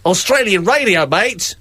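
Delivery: put-on rough Australian radio accent. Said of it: "that's my Australian accent".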